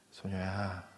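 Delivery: calm, loving wake-up call; tender words. Pretend. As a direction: coax the girl awake lovingly. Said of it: "부드러운 사랑의 말씀으로".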